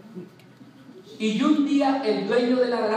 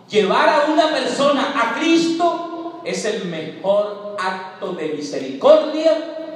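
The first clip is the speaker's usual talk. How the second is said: louder, higher preaching burst; exhortación fuerte; 3 semitones higher, 5 dB louder, slower than usual. Real, not acted. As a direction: proclaim it to the congregation. Predicador exhorta a la congregación. (predicación en voz alta)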